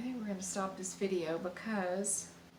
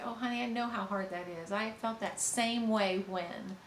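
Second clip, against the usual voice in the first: tender empathy. Shown as a demonstration. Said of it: "you can say".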